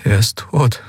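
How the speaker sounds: husky, choked-back narrated line; hoarse. A narrator's reading. Tearful Kai tells the spirit of a death, hoarsely. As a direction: force it out hoarsely, with restrained grief. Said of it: "sagte er mit heiserer Stimme".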